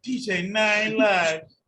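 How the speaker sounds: slow DJ drop. Pretend. Hype DJ intro voice.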